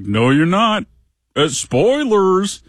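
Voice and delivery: put-on a know-it-all kid crying spoilers; indignant kid. Son protesting at a screen character.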